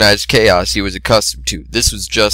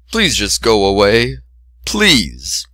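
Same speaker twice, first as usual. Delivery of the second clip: weary plea; much slower than usual. A narrator's reading. Begging through the door.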